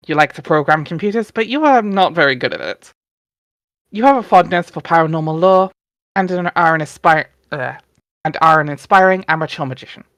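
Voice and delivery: steady storybook narration; story narration. A narrator's reading. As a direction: read it out like the comic's narrator. Reading Homestuck narration aloud.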